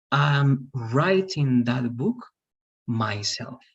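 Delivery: I'm writing that book myself, slow and deliberate; emphasis on the action. Shown as a demonstration. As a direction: stress the action, slowly. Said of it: "try to put emphasis on the action".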